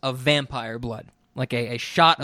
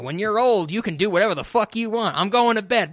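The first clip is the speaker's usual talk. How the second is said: put-on grumpy old man; 6 semitones higher than usual. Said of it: "pull on that George Carlin joke".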